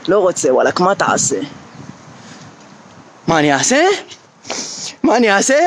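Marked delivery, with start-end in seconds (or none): 0.1-1.3 big guy. Retold or imitated. The big guy answers him. 3.3-3.9 lower, taunting question; imitating the big guy. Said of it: "הוא שואל אותי".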